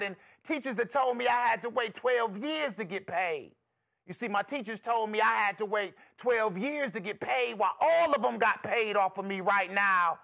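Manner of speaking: impassioned spoken-word plea to God, building; rhythmic, despairing testimony in a desperate young man's voice; young man's prayer. Acted. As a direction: cry out to the Lord from your knees. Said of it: "And he says".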